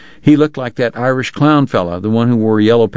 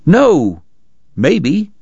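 flustered cry; 7 semitones higher, much slower than usual. Acted. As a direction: blurt each word, cornered and rattled. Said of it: "Bat cried".

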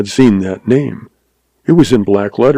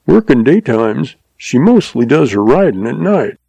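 put-on old stableman; 3 semitones higher than usual. Stableman voice again.

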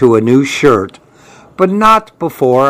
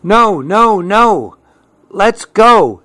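higher-pitched, mildly exasperated grandma; raised pitch, putting a stop to it; exasperated refusal; 6 semitones higher, slower than usual. A narrator's reading. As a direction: voice a grandma who has had enough. Grandma fleeing the neighborhood noise.

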